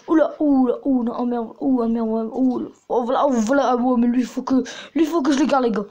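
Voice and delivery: excited outburst over a favourite machine gun, a bit loud; loud excitement. Real, not acted. Kid gamer gets excited over his favourite gun, talking a bit loud. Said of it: "Désolé que je parle fort".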